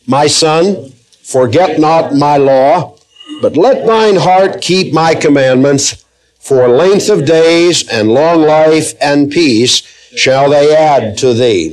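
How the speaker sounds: slow, measured scripture reading; reading verses aloud. Real, not acted. Preacher leading the congregation in reading two verses aloud, measured recitation. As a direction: read it out deliberately, pausing between phrases. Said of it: "Let's read these two verses aloud".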